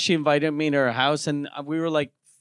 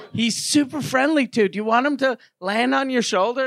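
higher coaxing mock voice; friendly girl; 5 semitones higher than usual. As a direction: coax him to hold the bird. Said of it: "she was like".

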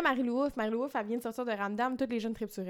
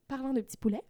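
mock French accent; 2 semitones higher, faster than usual. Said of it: "ces expressions françaises, entre guillemets".

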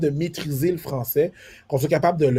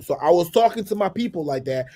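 New York street English, pitched up; New York accent; 4 semitones higher than usual. Shown as a demonstration. Showing how he talks among New Yorkers, New York accent. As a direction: talk like one of the New York locals. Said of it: "je vais parler comme ça".

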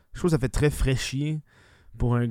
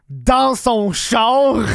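laughing; 9 semitones higher, 8 dB louder, much slower than usual. Real, not acted. Bursts out laughing at the video.

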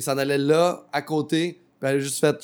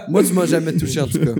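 laughing; 4 semitones higher, 9 dB louder than usual. Real, not acted. Laughing protest.

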